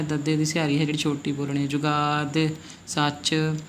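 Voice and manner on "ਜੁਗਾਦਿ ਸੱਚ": ਜੁਗਾਦਿ with stretched gaa and tiny final i; long aa, short i. Shown as a demonstration. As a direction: hold the gaa in ਜੁਗਾਦਿ, clip the i. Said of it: "ਲੰਮਾ ਲੈ ਕੇ ਜਾਣਾ ਹੈ".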